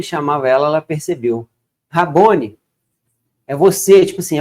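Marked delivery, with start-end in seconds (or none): 1.9-4.1 louder, lifted exclamation of recognition; mildly acted astonished recognition; amazed recognition. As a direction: act out Mary realizing who it is. Acts out Mary recognising Jesus.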